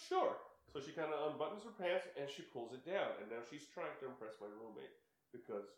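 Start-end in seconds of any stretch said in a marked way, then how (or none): 0.1-0.4 put-on much higher, a playful girlish "Sure"; mock girl's voice. Imitating the girl saying sure to the guys. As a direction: squeak it out like the girl agreeing. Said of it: "She goes".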